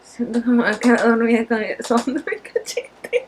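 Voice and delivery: drowsy, slurring a little; drowsy tipsy. Real, not acted. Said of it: "sounds like you're falling asleep".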